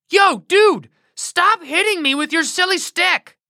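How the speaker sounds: high, laid-back dude voice; a donkey playing it cool; cool talking donkey. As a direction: talk like a chill surfer donkey. Donkey finally talks back.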